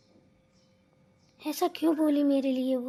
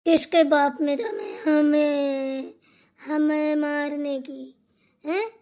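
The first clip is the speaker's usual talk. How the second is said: put-on slow drunken defiance; 4 dB louder, slower than usual. Drunk woman defies husband.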